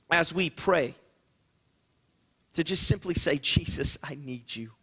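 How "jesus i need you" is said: hushed, breathy-soft plea of Jesus' name; whispered prayer. Shown as a demonstration. Pastor showing how to pray it quietly to the congregation, hushed whisper. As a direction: barely voice it, like a private prayer. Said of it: "You can whisper it".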